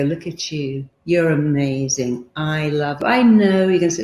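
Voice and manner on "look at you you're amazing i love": quiet, slow, tender self-talk; soft mirror affirmation. Shown as a demonstration. Coach demonstrates tender words to her own reflection. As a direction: say it gently to yourself in the mirror. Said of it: "look in the mirror and go".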